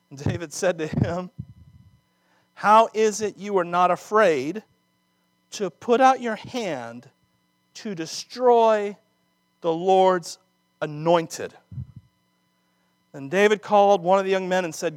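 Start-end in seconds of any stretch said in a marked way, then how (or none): 2.5-11.5 stern rebuke. Acted. Preacher voicing David's rebuke.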